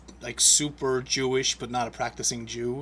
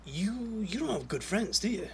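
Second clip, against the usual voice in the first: inner voice; 6 semitones higher, 5 dB quieter than usual. Retold or imitated. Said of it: "even in my head".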